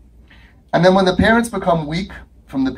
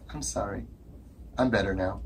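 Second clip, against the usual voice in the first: mock meek kid; 10 semitones lower, 14 dB quieter than usual. Kid apologizes at door.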